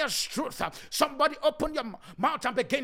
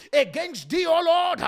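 loud fervent cry; crying out to God; 4 semitones higher, 6 dB louder than usual. Acted. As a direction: call out to God. Crying out in prayer.

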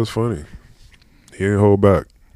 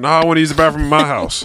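pitched-up retold reply; high voiced quote; 9 semitones higher than usual.

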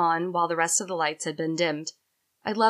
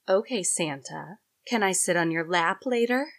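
deep sultry voice. Acted. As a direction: tease him, low and unhurried. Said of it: "in a deep, sultry voice".

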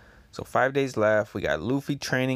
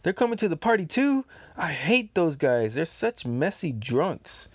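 Queen's voice; 7 semitones higher than usual. Acted. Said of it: "And then Queen says".

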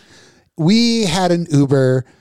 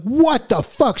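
mock outraged publicist; 9 semitones higher, slower than usual. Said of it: "she blows up".

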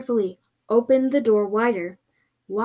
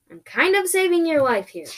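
higher, indignant retort; mild yell back; 7 semitones higher than usual. Acted. Creature saving the one who protests, yelling back mildly. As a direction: protest with raised pitch. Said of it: "the creature yelled back at me".

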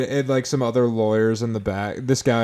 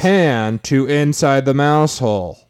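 lawyer addressing the jury; 3 semitones higher, 4 dB louder than usual. Pretend. Mock courtroom closing argument.

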